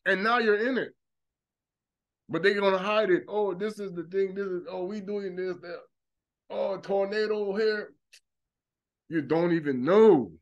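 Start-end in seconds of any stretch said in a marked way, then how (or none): 3.3-7.9 hushed mock. Mocking the cover-up talk.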